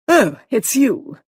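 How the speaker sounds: slow, loud sigh of relief. A narrator's reading. Missus Boyle relieved to see the visitor, slow and loud. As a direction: let the fear drain out of it. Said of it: "she said with relief".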